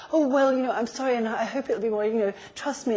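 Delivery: mock flustered, rambling apology; scattered apology. Coach showing how she could have apologized, scattered. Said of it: "how I could have apologized".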